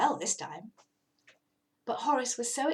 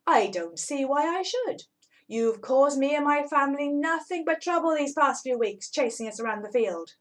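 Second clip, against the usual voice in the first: louder, stern refusal; reproachful rabbit; 4 semitones higher, 5 dB louder than usual. Acted. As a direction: scold the cat for the trouble.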